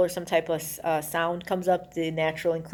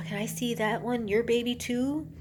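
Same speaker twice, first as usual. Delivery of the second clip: higher, slowing coo, lightly imitated; coaxing; 5 semitones higher, 4 dB quieter than usual. Gary asking Sandra Bullock for her baby, mock-sweet coaxing. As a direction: coax a guarded mother, lightly acted.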